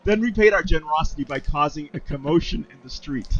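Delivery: amateur British officer; terrible British accent. Acted. Officer explaining the refugees' offence, terrible British accent. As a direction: report it in a badly put-on British accent. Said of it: "I've got a terrible British accent".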